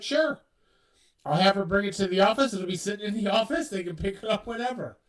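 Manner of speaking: breezy, helpful agent; cheerful parking lady. Retold or imitated. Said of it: "She's like".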